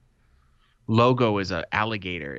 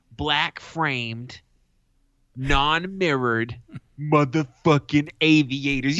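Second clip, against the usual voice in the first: higher, louder, proud announcement; triumphant; 5 semitones higher, 3 dB louder, slower than usual. Real, not acted. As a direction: present them like a trophy. Triumphant reveal of the glasses.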